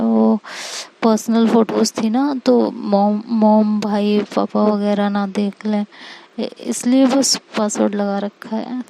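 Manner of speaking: halting, tripping over the words; flustered girlfriend stammering out an excuse; nervous stammering. Acted. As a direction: stall and stumble like you're hiding something. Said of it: "हकलाना तो नहीं चाहिए ना बाबू".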